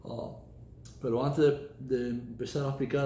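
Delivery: Spanish with an American accent; Spanish spoken as a second language with an American accent. Real, not acted. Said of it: "mi español no es el mejor del mundo".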